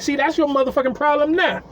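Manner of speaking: high mock scolding. Scolding drunk woman.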